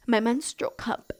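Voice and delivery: hushed aside; whispering. Real, not acted. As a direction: drop to a whisper. Whispering embarrassing word.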